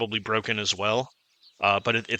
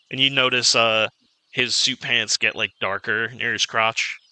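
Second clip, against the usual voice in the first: ordinary delivery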